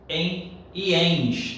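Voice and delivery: slow drilled rule. Shown as a demonstration. Teacher drilling the rule to memorize, slowly.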